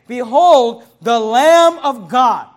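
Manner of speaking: loud, slow behold; proclaiming scripture. Acted. Preacher proclaims John's words to the congregation, loud and slow. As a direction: announce it to the whole church.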